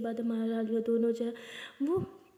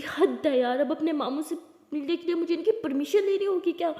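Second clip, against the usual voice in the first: annoyed outburst; 4 semitones higher, 4 dB louder than usual. Acted. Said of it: "इतना गुस्सा अच्छा नहीं है".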